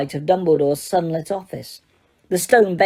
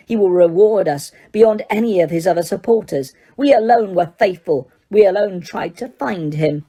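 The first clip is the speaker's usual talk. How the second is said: calling out defiantly; proud and unafraid; a hint of a defiant follower. Prisoner calling out to Crouch, lightly defiant. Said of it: "looked up at Crouch and called".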